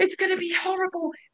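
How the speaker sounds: very high, fast, panicked shriek.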